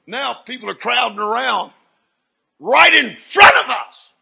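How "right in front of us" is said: loud, high and slow; amazed exclamation. Real, not acted. Preacher telling of crowds at a miracle, loud amazement.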